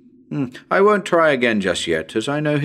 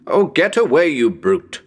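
sharp, higher, louder swat of words; irritated shooing; 4 semitones higher, 4 dB louder than usual. Acted. Investigator shooing the bat from his face, irritated outburst. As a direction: shoo off a pest. Bat brushes past again.

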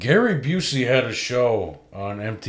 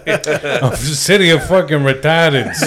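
slow, drawn-out Boston jeer; slow comic Boston accent, pitched up; mock Boston accent; 4 semitones higher, 4 dB louder, slower than usual. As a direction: draw it out like a Bostonian. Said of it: "the retarded thing is actually real".

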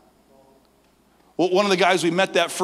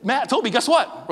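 high, bright "guess what" rising; eager tease; 10 semitones higher, 3 dB louder than usual. Retold or imitated. Ren teasing his friends with big news, high and eager. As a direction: build it up like a secret.

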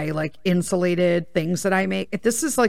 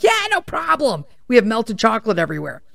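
sarcastic reply; 3 semitones higher than usual. Retold or imitated. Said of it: "And I'm like".

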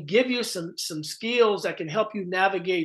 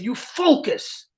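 calm Miyagi command; 6 semitones higher, slower than usual. Retold or imitated. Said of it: "he said".

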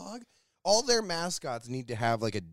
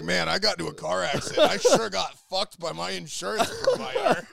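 sitcom extra voice; 5 semitones higher, 7 dB louder than usual. Retold or imitated. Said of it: "bit characters are like".

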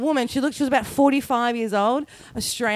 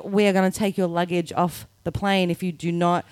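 lightly imitated, lower announcer voice; airport announcement; 6 semitones lower than usual. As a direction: recite it like a final boarding warning. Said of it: "the fourth announcement I heard".

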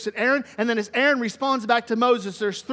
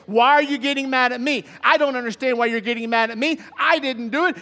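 mildly indignant protest, a bit louder; defensive Aaron; 4 dB louder than usual. Acted. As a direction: push back as the accused, lightly acted. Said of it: "Aaron responds to Moses is by defense".

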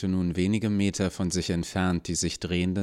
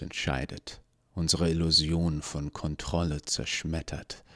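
cold villain; 2 semitones lower than usual. Acted. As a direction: lay out his dark creed calmly. Gnädige lectures his brother.

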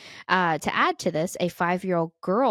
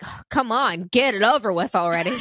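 impatient; 3 semitones higher, 6 dB louder than usual. Pretend. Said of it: "And then it's like".

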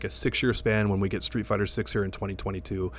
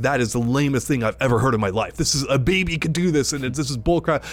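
mock outrage; 3 semitones higher than usual. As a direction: play the outraged purist. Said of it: "They're like".

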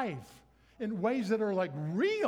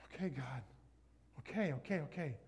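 much softer, lower giving in; resigned surrender; 3 semitones lower, 5 dB quieter than usual. Retold or imitated. Young him surrendering to God, soft and resigned. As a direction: sigh out the okays.

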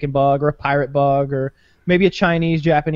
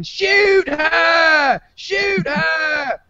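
panicked shout; 12 semitones higher, much slower than usual. Retold or imitated. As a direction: shout it like a man about to be eaten. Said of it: "you can hear the one guy going".

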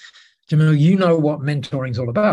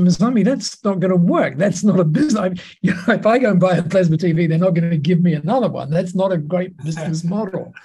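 higher, quick, amused objection; mild retold protest; 4 semitones higher, faster than usual. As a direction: playfully act out disbelief, picking up speed. Retold protest at her business idea.

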